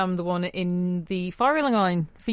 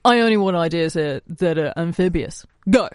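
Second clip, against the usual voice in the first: mock meeting command; 5 dB louder than usual. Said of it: "Like that".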